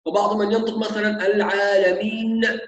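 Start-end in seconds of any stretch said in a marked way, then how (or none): 1.3-2.6 "العالمين" with a small bounced vowel after the final n; voweled nun. Shown as a demonstration. Teacher imitates some readers, العالمين with its nun wrongly moved. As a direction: release the last n of "العالمين" into a stray "na". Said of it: "يحرك النون".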